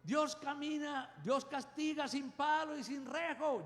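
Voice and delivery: lightly voiced mother calling after the running kids; mother's warning cry. Preacher recalls mother yelling at fleeing kids, mock warning. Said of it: "gritaba así".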